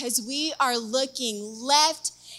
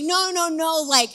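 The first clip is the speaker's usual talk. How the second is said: eager retold insistence, louder on the food; excited; 3 semitones higher, 6 dB louder than usual. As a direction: act out being pumped about dinner. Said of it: "I was excited".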